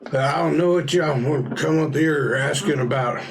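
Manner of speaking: lightly voiced hillbilly accent as a rough local. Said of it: "like, hillbilly accent".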